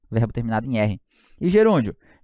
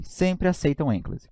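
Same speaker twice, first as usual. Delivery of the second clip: slow dictation; 4 dB quieter, slower than usual. Shown as a demonstration. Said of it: "Coloca assim".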